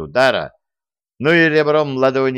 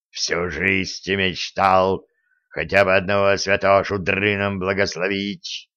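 gleeful relish; 2 semitones lower than usual. Acted. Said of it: "сладострастно выдохнул Жучок".

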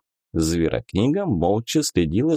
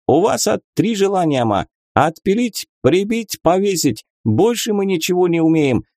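put-on Central Asian accent; 8 semitones higher than usual. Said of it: "Ravshan offers three wishes".

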